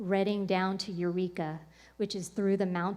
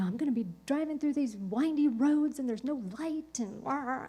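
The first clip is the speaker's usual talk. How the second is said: higher, mock-whiny fretting; whiny worry; 5 semitones higher than usual. Dreading the dark drive home, lightly mock-whiny fretting. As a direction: whine a little about the dark roads.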